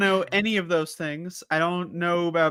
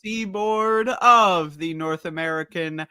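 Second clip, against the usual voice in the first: announcer voice. Pretend. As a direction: announce it like broadcast news. Mock official time announcement.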